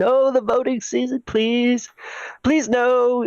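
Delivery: mock dread. Mock dread about voting season.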